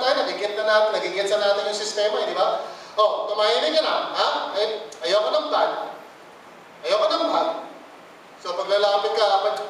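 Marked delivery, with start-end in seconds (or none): 2.9-7.5 lightly voiced nagging mother; mock scolding parent. Parent hushing a child, a hint of scolding. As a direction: hush the child like an impatient parent.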